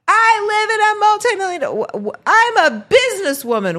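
high, loud mock Karen voice; shrill Karen. Mocking an entitled woman screaming at police, high and loud. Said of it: "screaming that she was a business owner".

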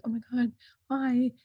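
imitating gushing girls; excited girls. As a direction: girls gushing at a baby in a restaurant. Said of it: "these girls were like".

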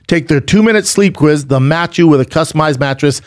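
smooth, upbeat sponsor read. Real, not acted. Host selling mattresses to listeners, ad read. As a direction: pitch it to listeners with steady drive.

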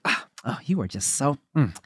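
unvoiced swooning sigh, soft; breathy swoon. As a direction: swoon at him under your breath. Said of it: "she's like".

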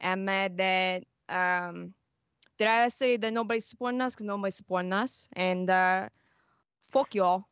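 put-on deadpan, threatening Boston accent; calm Boston accent. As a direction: grumble calmly in a Boston accent. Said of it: "In your best Boston accent".

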